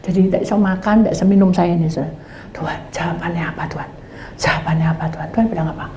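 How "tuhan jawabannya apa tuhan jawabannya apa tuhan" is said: softer, voiceless pleading to God; whispered prayer. Retold or imitated. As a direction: beg God in a hush.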